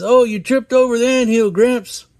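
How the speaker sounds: put-on high, loud kid voice. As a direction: chirp it like a cartoon kid. Kid voice in retold cartoon.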